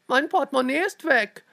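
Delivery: high, loud cry of alarm; startled cry. A narrator's reading. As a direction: call out the loss, shocked. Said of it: "rief die Dame mit dem Sudoku erschrocken".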